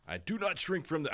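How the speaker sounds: put-on a quick, half-hearted try at a Massachusetts accent; Kennedy Massachusetts accent. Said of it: "do a Massachusetts accent".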